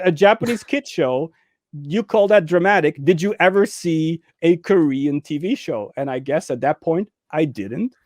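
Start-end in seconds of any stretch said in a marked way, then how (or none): 0.0-5.9 scoffing friends. Retold or imitated. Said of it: "But they said".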